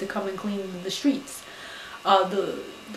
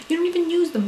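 higher, louder repeat of the jab; mock-outraged repeat; shrill repeated jab; 9 semitones higher, 4 dB louder, much faster than usual. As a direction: hit it harder the second time. Repeated jab in scolding rant.

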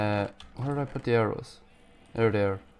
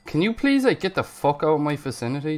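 real irritated outburst, higher and louder at first; exasperated outburst; 4 semitones higher, 4 dB louder than usual. Real, not acted. Player telling off a creature that startled him, exasperated. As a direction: start high and loud, then ease off.

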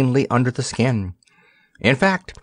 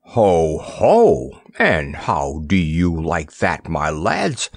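parrot laughing; 5 semitones lower, slower than usual. Acted. Parrot Roger laughing, mocking.

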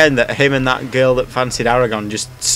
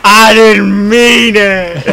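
high, slow whiny voice; squeaky mock voice; 8 semitones higher, 8 dB louder, much slower than usual. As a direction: whine it like a cartoon. Mock apology voice.

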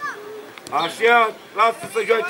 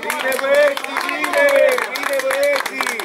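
cheering call; 4 semitones higher, slower than usual. Real, not acted. Cheering the team.

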